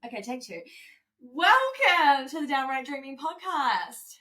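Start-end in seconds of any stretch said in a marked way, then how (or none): 1.2-4.1 slow, loud radio host welcome. Acted. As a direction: announce it like a radio DJ. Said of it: "Sound like a radio host".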